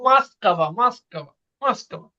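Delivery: মাস্কাভা with the first ও said as আ; Russian way: মাস্কাভা, not মস্কোভা; reduced vowels. Shown as a demonstration. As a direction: say মাস্কাভা, unstressed ও as আ, stress on কাভা. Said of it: "আমাদের কি হয়?".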